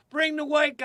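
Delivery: high, loud yell through a laugh; heckling yell. Retold or imitated. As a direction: shout it at the struggling comics. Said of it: "people would yell".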